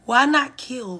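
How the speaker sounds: "not" hit loud and high; stress on not. Shown as a demonstration. Teacher pressing the word not, stressed. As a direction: lean on "not" in "Why not kill?". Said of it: "Why not murdered or".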